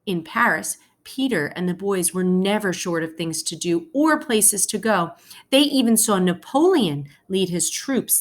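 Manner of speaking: expressive storybook read-aloud for a class; reading to children. Acted. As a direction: read it like a teacher sharing a picture book with kids. Teacher reads picture book aloud.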